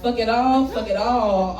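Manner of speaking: a light take on a deadpan repeated line; El Varner voice. Retold or imitated. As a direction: poet mimicking another poet's refrain. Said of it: "All in my El Varner voice".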